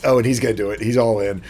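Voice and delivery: usual speaking voice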